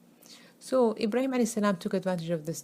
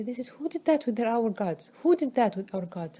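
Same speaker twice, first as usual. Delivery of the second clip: higher, a touch louder alarmed question; mock upset outcry; 5 semitones higher, 3 dB louder than usual. Townspeople finding their smashed gods, mildly acted outrage. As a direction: cry out over the smashed gods, lightly acted. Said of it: "they were so upset and furious".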